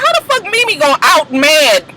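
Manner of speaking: incredulous. Retold or imitated. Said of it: "I was just like".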